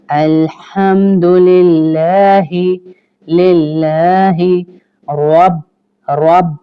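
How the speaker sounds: slow, drawn-out chanted Arabic; tajweed recitation; slow Quran recitation. Shown as a demonstration. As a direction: recite each syllable slowly for students to copy. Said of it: "बा पे आपके होंठ बंद होंगे".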